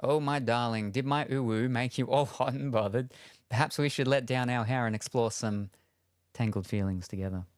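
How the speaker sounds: lightly voiced flirty storybook princess; mock seduction to the chat; mock seductive Rapunzel. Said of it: "The cursed uwu".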